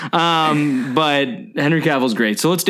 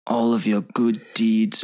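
Solomon Lane; 2 semitones lower than usual. Retold or imitated. Host retries the villain's line for friends, lightly imitated. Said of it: "What does he say?".

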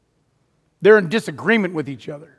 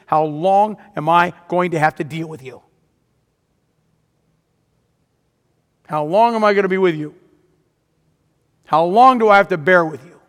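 impatient. Acted. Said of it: "you can hear Jesus' impatience".

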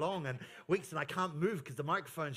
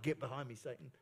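stern rebuke; 7 semitones lower, 8 dB quieter, faster than usual. Retold or imitated. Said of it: "remember what Jesus said".

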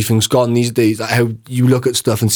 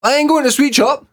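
fed-up parent; 10 semitones higher, faster than usual. Pretend. Voicing a fed-up parent to a child.

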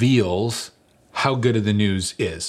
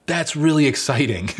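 low-key pleased; 7 semitones higher than usual. Retold or imitated. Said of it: "myself that is like".

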